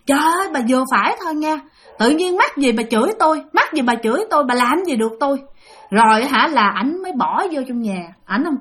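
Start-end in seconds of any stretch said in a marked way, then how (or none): 0.1-5.4 fast, indignant talking back; retold angry retort. Brother fed up, hurls a fast indignant retort at the ghost. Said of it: "tức lên".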